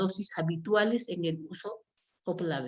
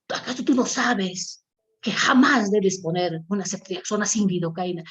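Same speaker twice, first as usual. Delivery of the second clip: retold scolding; 5 dB louder than usual. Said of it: "¿Por qué estoy gritando?".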